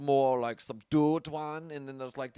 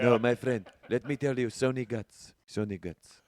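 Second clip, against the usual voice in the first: mock Azerbaijani accent; 3 semitones lower than usual. Plays an Azerbaijani pleading with friend.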